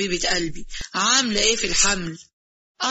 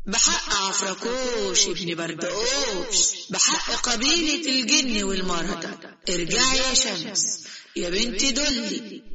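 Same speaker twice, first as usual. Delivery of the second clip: incantation; slower than usual. Acted. Genie Afrakoush casting the spell to restore Shams, slow intoning.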